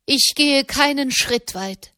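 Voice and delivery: high-pitched, firm refusal; loud declaration. A narrator's reading. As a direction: proclaim it, pitched well up. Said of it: "Katharina sagte laut".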